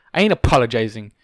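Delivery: huffed. A narrator's reading.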